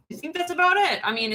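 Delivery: normal talking voice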